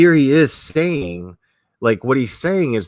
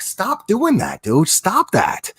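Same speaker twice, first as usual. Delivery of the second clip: much higher, slower mock plea; mock exasperation; 9 semitones higher, slower than usual. Viewer begging Irwin to leave the snake, mock exasperated plea. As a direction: whine it like a worried onlooker. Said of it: "you'd be like".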